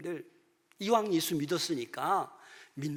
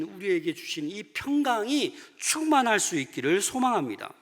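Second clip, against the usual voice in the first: normal talking voice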